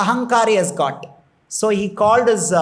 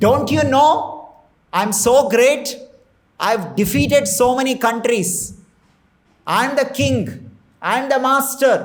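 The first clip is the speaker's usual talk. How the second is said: proud angry king; 3 semitones higher, faster than usual. Retold or imitated. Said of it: "so angry".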